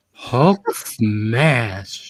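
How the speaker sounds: drawn-out campy Hulk smash. Pretend. Joking about a gay Hulk, drawn-out campy, laughing. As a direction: camp it up as Hulk. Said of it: "a gay Hulk say".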